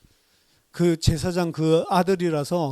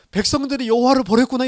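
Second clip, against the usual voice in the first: lamenting cry; 7 semitones higher, 6 dB louder than usual. Retold or imitated. Samuel's lament voiced.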